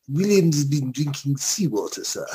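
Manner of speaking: laughing through a remembered film line; half-giggling imitation of a sailor reporting; quoting a film line, laughing. Siblings' favourite film line, quoted through a laugh. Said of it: "we just always remember the line".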